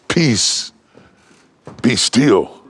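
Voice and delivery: Jesus ordering the storm, rising and firm; commanding. A narrator's reading. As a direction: lift it into a ringing order.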